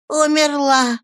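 high exclaim; old woman bursting into the room. A narrator's reading. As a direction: call out the news. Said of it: "воскликнула одна из старух".

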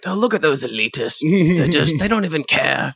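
mock sneering parents. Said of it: "voicing disgusted parents".

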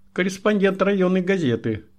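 eager secretary's high chirp. A narrator's reading. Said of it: "защебетала секретарша".

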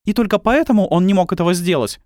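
high, loud astonished question. A narrator's reading. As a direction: disbelief rising sharply. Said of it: "с изумлением спросила она". (высоко и громко, с изумлением)

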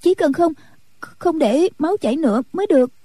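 frantic worry for his wound; panicked. A narrator's reading. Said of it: "vô cùng hốt hoảng nói". (ni cô hoảng hốt, giọng cao lên)

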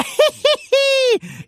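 very high, slow mischievous tee-hee; high cheeky giggle. Acted. Boy giggles after teasing grandma, very high.

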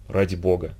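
тихо и ниже, почти шёпот; умоляюще, вполголоса; шёпотом. A narrator's reading. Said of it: "шепнул Теодор". (тихая мольба Теодора)

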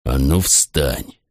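low, slow, gritted-teeth order; through gritted teeth. A narrator's reading. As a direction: squeeze the words out through clenched jaw. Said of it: "процедил".

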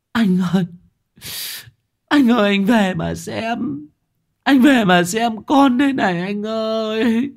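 very high, piercing grief-stricken wail; keen out to the husband in anguish, stretching the final cry. A narrator's reading. Wife wails to her unconscious husband and child, anguished high keening. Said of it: "rú lên những lời đau đớn, ai oán than van".

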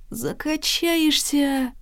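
hushed promise, stretched out in a high voice; excited whisper. A narrator's reading. Ant promising a wonderful upstairs, excited and hushed. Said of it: "шепнул Ант".

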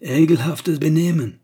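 loud, high furious roar; outraged German roar. A narrator's reading. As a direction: bellow the insult at the closed door. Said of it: "rugit Klutz".

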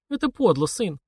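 wounded by her son's trick; gasped reproach. A narrator's reading. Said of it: "охнула мама".

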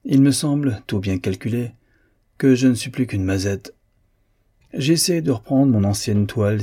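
sudden harsh frustration. Acted. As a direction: spit out each "m'ennuie" with nervous despair. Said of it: "et dit, la voix âpre, soudainement".

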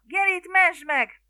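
high, loud, drawn-out cry; frantic plea. A narrator's reading. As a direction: wail for rescue. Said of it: "kiáltotta". (elnyújtott, magas segélykiáltás)

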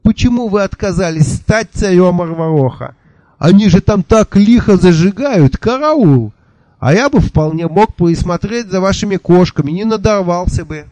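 high, fast babble with a burred R; burred rapid chatter. A narrator's reading. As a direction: rattle it off breathlessly, swallowing the R. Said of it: "Картаво затараторил он".

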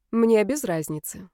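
flat, slow robotic monotone. Acted. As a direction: chipper text to speech voice. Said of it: "голосом робота сказала Настя". (голос робота)

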